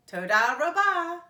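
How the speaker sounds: high, loud grateful voice; thankful woman. A narrator's reading. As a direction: thank them warmly.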